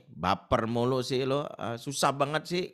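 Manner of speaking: annoyed, dismissive nagging at a sulking partner; impatient scolding. Retold or imitated. Husband brushing off his sulking wife, annoyed. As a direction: roll your eyes and scold. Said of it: "Sikap kita selalu gini".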